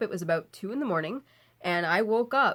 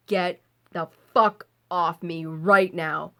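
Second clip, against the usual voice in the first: harsh command; 2 semitones lower, 5 dB louder, slower than usual. Retold or imitated. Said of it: "quite harshly".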